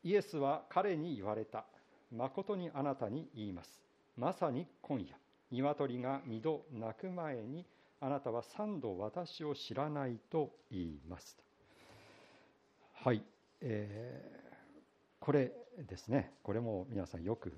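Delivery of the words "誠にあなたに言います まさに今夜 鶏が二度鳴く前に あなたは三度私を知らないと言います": slow, measured reading of Jesus's words; slow, solemn Bible reading; scripture reading. Acted. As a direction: read the verse slowly and solemnly. Reads scripture aloud.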